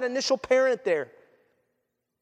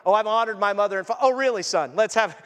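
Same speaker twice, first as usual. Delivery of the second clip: mock mother. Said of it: "like mom sitting there and been like".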